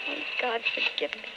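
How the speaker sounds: soft unvoiced plea; whispered prayer. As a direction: whisper it to God in shame. Wife prays after betraying him.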